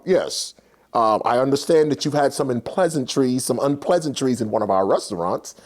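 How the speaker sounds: low-pitched, formal corporate lawyer; attorney voice. Retold or imitated. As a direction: imitate a measured attorney on the phone. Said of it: "It's one of the attorneys".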